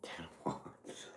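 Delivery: breathless whisper in disbelief. Real, not acted. Reader stunned by a repeat card, whispering. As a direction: breathe it almost silently. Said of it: "same card drawn twice".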